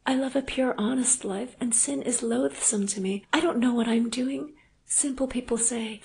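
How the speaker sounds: a lightly voiced remorseful young wife; Anna's voice. A narrator's reading. Anna voiced in the story.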